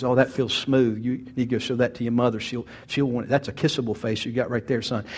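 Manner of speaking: a hint of a father's low, soft voice; lightly imitating an easygoing fatherly chat; lightly voiced dad. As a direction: talk quietly and low, as a dad to his little son. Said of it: "he would talk to me like that".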